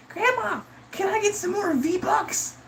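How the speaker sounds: very high, drawn-out mock kid yell; thirteen-year-old yelling. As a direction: whine for game money in a slow falsetto child's voice. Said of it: "thirteen-year-olds, like, yelling at their grandma in the background".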